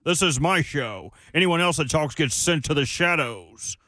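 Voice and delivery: lightly imitated radio host, starting fast and high; quick, high intro settling into a mock proclamation; Buck Rising. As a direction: send up a host's self-important show opener. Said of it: "You do my voice".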